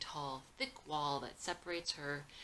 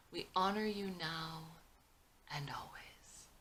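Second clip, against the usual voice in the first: choked up; 2 semitones higher than usual. Acted. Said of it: "as he gets choked up".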